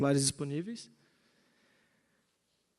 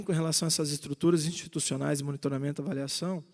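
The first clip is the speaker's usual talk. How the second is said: rushing; faster than usual. Real, not acted. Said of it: "eu peço desculpa pela pressa".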